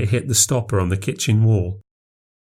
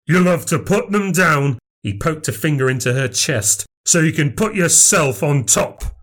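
raised voice, jabbing accusation; angry accusation; 5 semitones higher than usual. Acted. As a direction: accuse her furiously. Dad confronts Nan.

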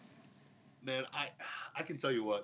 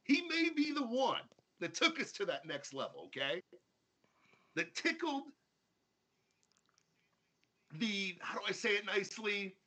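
mock grudging praise; 8 semitones higher than usual. Mock grudging praise, rising pitch.

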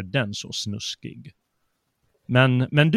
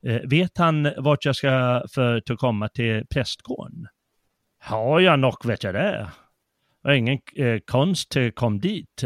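an honest try at Värmland dialect; attempted Värmland dialect. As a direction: read Fröding's lines in your best Värmland dialect. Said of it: "jag kan ju inte värmländska, men jag gör mitt bästa här".

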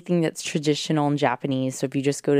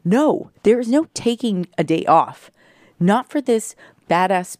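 yelling; 5 semitones higher, 4 dB louder than usual. Real, not acted. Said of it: "I was yelling into the microphone".

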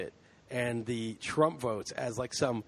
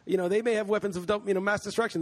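higher, scornful imitation of pundits; sarcastic mockery; 7 semitones higher than usual. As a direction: sneer at the pundits who pushed the war. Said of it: "and you're like".

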